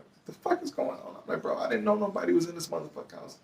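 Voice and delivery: high, frantic disbelieving protest; panicked protest. Retold or imitated. Arrested man protesting to cops, high frantic disbelief. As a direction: squeal out bewildered innocence.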